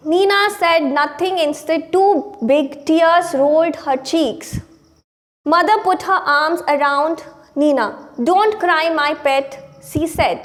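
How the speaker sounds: slow, measured English story reading; deliberate classroom read-aloud; read-aloud lesson. Acted. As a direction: read the text out slowly, word by word. Reads the English text aloud.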